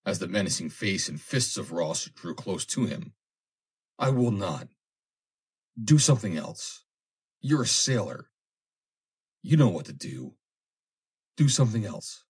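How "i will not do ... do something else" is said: desperate pleading. Acted. Foster pleading against being drowned.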